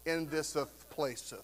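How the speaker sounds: put-on old-fashioned prayer voice. Old church gentleman praying in King James language, slow and lofty. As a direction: intone it like an old pew preacher. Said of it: "But it was like".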